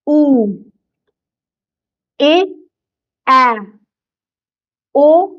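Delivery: each Hindi vowel said slowly and clearly, one by one; clear vowel drill. Shown as a demonstration. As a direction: sound out every vowel for the class to repeat. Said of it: "मेरे पीछे repeat करिए". (स्वरों का साफ़ उच्चारण)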